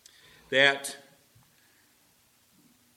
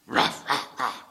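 gruff bark; 5 dB louder, slower than usual. Retold or imitated. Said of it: "only way he knew how to talk".

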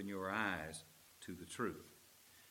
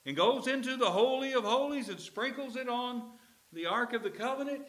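higher, louder fervent Jesus voice; Jesus pleading; 12 semitones higher, 6 dB louder than usual. Acted. Jesus urging the Emmaus disciples, higher and fervent.

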